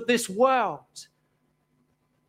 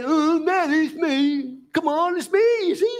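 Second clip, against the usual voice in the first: impatient it's me; 5 semitones higher than usual. Pretend. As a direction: pitch it up, rising into a pleading it's me. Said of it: "He doesn't say".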